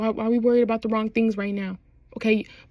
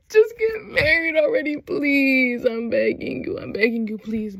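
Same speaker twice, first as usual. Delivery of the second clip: playful begging; 3 semitones higher than usual. Real, not acted. Playfully pleading with the characters.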